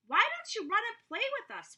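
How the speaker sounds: wild rabbit calling him to play, high and bright; strange wild rabbit. A narrator's reading. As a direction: tempt him to come and play. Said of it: "one asked".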